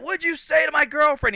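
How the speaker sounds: imitating an aggressor, pitched high; confrontational. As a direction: get in his face with the demand. Retelling an aggressor in his face.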